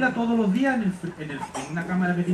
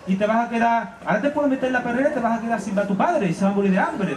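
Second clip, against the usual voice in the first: scolding butcher; 4 semitones higher than usual. Acted. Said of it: "Tomás le dice".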